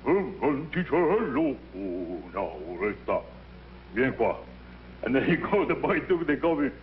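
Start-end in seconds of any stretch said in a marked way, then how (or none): 0.0-4.4 big voice. Retold or imitated. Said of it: "with the big voice of a singer".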